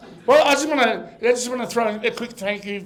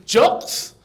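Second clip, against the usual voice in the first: JOCKS as an Italian says "jokes", short O; imitating Italian accent; 3 semitones higher, 3 dB louder than usual. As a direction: mimic the Italian, raised JOCKS. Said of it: "In his accent, he said".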